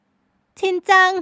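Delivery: high, loud, very slow puzzled echo; drawn out in confusion; puzzled young woman. A narrator's reading. Heroine repeats the name.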